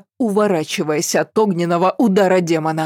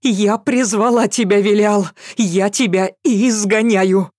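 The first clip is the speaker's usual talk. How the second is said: commanding shout; 3 semitones higher than usual. A narrator's reading. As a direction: cast it out with full force. Girl banishing the demon.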